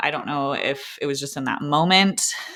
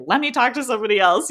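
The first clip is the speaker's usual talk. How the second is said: higher-pitched, agitated mock demand; retold freaking out; 8 semitones higher, 4 dB louder, faster than usual. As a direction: act out a freaked-out husband demanding help. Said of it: "He was freaking out".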